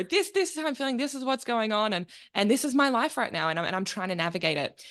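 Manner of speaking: a desperate attempt at an American voice; bad American accent. Guest imitating a podcaster, lightly put-on American accent. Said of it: "I can't do an American accent".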